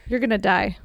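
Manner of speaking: low, unexcited imitated deadpan. Imitating the cashier girl at the register, deadpan. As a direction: deliver the grim line as if it's nothing. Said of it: "So deadpan".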